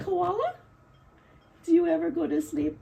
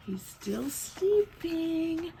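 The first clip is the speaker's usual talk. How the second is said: hushed; 5 dB quieter, much slower than usual. Acted. Hushed aside about sleeping bear.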